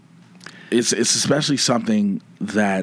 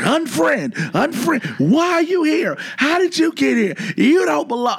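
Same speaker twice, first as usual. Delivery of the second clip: retold ranting. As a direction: go off on them like a bad day. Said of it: "I just was going off".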